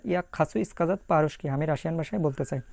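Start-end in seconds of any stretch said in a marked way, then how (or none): 0.1-1.5 very slow, careful Russian phrase; slow model sentence. Shown as a demonstration. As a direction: sound out "Я хочу сказать по-русски" word by word. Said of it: "মানে Russian ভাষা".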